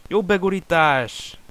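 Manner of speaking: high, loud, drawn-out shout; excited commentary cry. Real, not acted. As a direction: cheer the cross like a live caller. Chance in the box.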